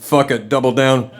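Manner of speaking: low, slow aside to himself; lightly voiced inner devil egging him on; little inner voice. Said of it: "the little voice in the back of my head".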